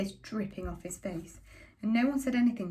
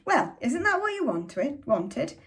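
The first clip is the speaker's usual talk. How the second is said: higher, slow, sneering shout; sarcastic shout; 6 semitones higher, 4 dB louder, slower than usual. A narrator's reading. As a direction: drag it out with bitter sarcasm. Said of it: "And Father shouted".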